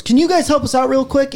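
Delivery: high pleading stranger voice; mock girl asking for help; begging stranger girl. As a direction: ask like a pushy stranger. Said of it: "she goes".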